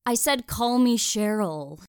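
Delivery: emphatic, slowed-down call. Acted. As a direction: raise the voice to be heard across a lawn. Repeating herself across the lawn.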